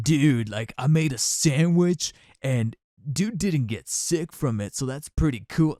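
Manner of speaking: slow, laid-back surfer drawl; surfer dude voice. Retold or imitated. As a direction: imitate a chill surfer dude. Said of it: "legit talks like a surfer".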